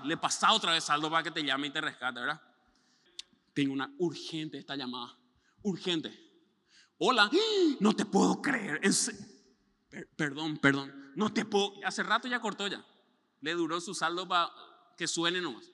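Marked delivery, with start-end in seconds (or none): 3.5-11.7 mock fake emergency. Escaping the talker with a faked urgent phone call, gasping.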